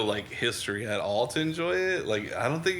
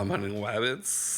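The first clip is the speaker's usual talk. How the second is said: Elmer Fudd; 3 dB quieter, slower than usual. Retold or imitated. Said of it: "a little Elmer Fudd-y".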